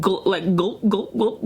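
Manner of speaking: mimicked gulps, one after another; imitated gulping sounds. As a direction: imitate a wet gulping noise. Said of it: "gulping sounds".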